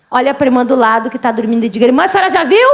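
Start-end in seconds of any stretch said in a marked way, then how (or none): 1.9-2.7 higher-pitched, pointed question; calling to a neighbour. Shown as a demonstration. Preacher prompts churchgoers to ask the neighbour, calling out. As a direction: nudge them with a rising question.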